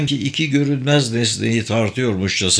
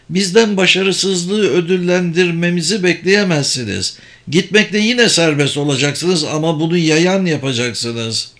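higher-pitched, assured mage; ikna edici büyücü; 4 semitones higher than usual. Acted. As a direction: sell the offer firmly in a higher voice. Sabır refuses reward for failure. (tiz perdeden, ikna edici büyücü sesi)

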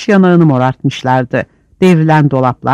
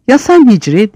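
a raised accusing call; mild shout; 6 semitones higher than usual. A narrator's reading. Arap İbo turns on Hicri with a raised accusing call. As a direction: call him out sharply. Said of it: "diye yeniden bağırdı".

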